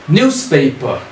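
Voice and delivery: Newspaper with the weight on NEWS; first syllable stressed. Shown as a demonstration. Teacher showing students where Newspaper takes its stress. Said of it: "we also stress on the first syllable".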